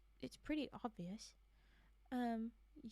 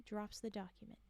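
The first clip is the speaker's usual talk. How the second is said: whispered suggestion of the better wording; soft unvoiced aside; 5 dB quieter than usual. Shown as a demonstration. Whispering a fix to the writer. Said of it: "You could just say".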